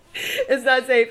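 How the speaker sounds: giggling, half crying; laughing through words. Real, not acted. Laughing at bad drink.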